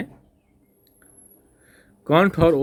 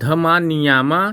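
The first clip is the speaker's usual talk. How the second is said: slow careful reading; 3 dB louder than usual. Shown as a demonstration. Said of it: "कह रहा है उपुप".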